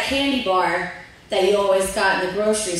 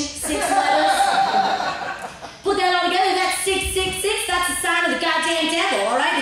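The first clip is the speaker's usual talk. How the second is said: higher, hammed-up sermon voice with counted-out letters; mock Southern preacher lady; 4 semitones higher than usual. Yorktown woman explaining the devil's number, hammed-up preaching. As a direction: preach it like a small-town bigot making her case.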